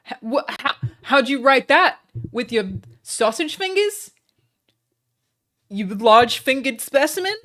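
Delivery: loud, high put-on jeering; mock him like a snobby bully; mock angry insults. Streamer insulting chatter on request, hammed-up jeers. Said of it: "I'm doing good, right?".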